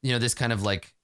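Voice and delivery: a hint of a pleading social climber; imitating a guild snob. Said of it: "be like".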